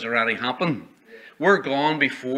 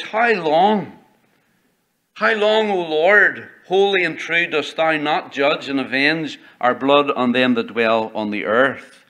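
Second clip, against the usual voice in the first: martyrs crying out; slower than usual. Acted. Preacher voicing martyrs begging God for justice, crying out. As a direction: cry out to God like slain martyrs. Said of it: "cried with a loud voice".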